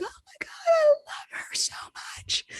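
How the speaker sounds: very high, gushing mock swoon; imitating friends who adore the singer; gushing fan. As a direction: squeal it like an adoring fan.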